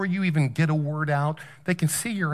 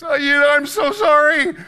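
mock tearful begging, high and whiny; 9 semitones higher, 3 dB louder than usual. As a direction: whine your excuse in a much higher voice. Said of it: "So then I use my whiny voice".

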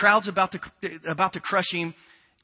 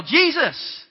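loud high desperate call of Jesus!; yell; 8 semitones higher, 8 dB louder than usual. Pretend. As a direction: cry out Jesus! as loud as you can. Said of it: "waiting for you to yell".

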